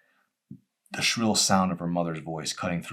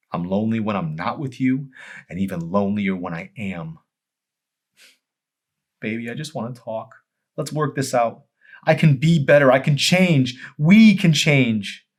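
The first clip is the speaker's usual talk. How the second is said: high, loud, begging husband; desperate pleading; 6 semitones higher, 8 dB louder than usual. Acted. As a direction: begs his wife to try again, rising to a cry. Joel begging Amy.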